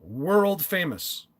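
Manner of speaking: "World famous." stretched out slowly with a small lift; slow hype repeat. Shown as a demonstration. Host repeating the guest's title to viewers, slow playful hype. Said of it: "record holder Joel Askin has just joined us".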